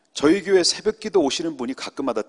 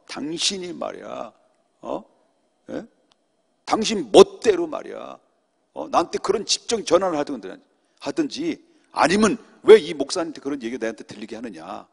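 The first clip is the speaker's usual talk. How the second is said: a mildly loud, angry pastor scolding over the phone; mock angry phone scolding; retold angry yelling; 3 semitones higher, 5 dB louder than usual. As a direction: scold like an offended pastor, half-acted. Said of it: "막 소리를 질러대는데".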